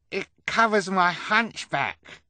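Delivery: very high, loud, slow character voice; happy exclamation. Acted. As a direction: cry it out overjoyed. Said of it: "he said happily".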